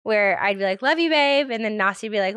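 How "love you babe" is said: playful affection. Retold or imitated. Re-enacts housemates' joke sign-off.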